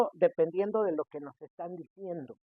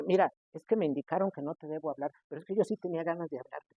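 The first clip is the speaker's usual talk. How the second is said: fast babble; 4 dB quieter, faster than usual. Retold or imitated. Pushy visitor babbles on.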